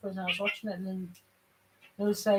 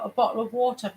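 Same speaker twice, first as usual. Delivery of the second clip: British customer's request; 3 semitones higher, 3 dB louder than usual. Retold or imitated. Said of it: "A British guy was in America".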